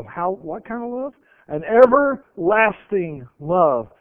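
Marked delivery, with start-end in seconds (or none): 1.5-3.9 emphatic scripture. Acted.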